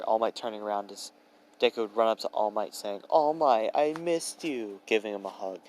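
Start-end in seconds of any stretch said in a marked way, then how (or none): 3.1-4.8 high, drawn-out happy call; gleeful greeting. A narrator's reading. Deku running up to hug All Might, gleeful greeting. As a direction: call it out high, stretching the words.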